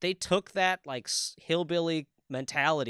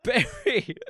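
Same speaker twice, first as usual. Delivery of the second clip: put-on very high, silly French accent; mock French accent; 4 dB louder than usual. Trading joke French words with a friend, high mock French accent. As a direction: squeal it as a cartoon Frenchman. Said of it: "Your Frenchman is just".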